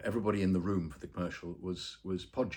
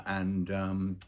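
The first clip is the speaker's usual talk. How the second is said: normal talking voice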